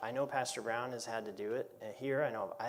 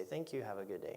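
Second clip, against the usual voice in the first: nicely said; 4 semitones lower, 9 dB quieter than usual. Retold or imitated. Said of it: "I will nicely say".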